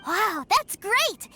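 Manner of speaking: put-on a child's delighted burst, drawn out slowly; light up with a child's wonder; slow, thrilled gasp of admiration; excited. Child excited about toy sellers.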